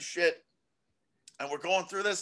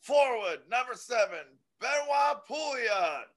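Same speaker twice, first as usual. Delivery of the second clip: announcer calling names; 5 semitones higher than usual. Retold or imitated. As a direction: stretch the name like an arena announcer. Announcer calls player names.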